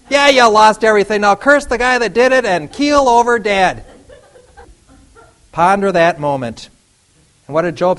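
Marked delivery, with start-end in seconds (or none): 0.1-3.9 high, loud, mocking through a laugh; laughing taunt. Job's wife mocking him, laughing loud and high.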